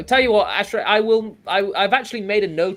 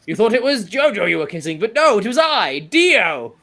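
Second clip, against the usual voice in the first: sneering gloating dark voice; 7 semitones higher, 8 dB louder than usual. Retold or imitated. Dio meme, gloating villain quote.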